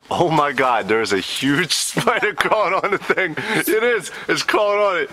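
laughing fake alarm. Spider prank, laughing.

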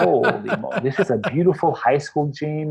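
laughing through the words, amazed; giggling wonder at a beautiful gym; laughing amazement. Retold or imitated. Player laughing to the host about the gym.

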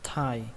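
"Thai" with a breathy puff on the first sound; aspirated "Thai". Shown as a demonstration. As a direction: let extra air out on the start of "Thai". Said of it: "thở nó ra một tí nữa, bắn hơi nó ra thêm một chút nữa".

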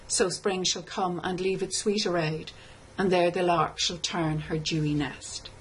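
measured, solemn recitation of a war poem; a gentle graveside recitation; poem reading. Shown as a demonstration. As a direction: read it like an elegy, evenly. Teacher reads the poem aloud.

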